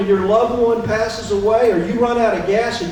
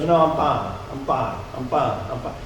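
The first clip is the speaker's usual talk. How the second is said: mock insistence; 8 semitones lower, 4 dB quieter than usual. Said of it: "she goes".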